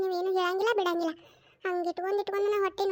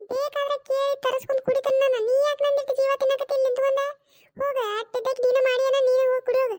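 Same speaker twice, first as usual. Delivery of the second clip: irritated scolding; 3 semitones higher than usual. Acted. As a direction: snap at her to go away. Mother-in-law refuses tea, fed up.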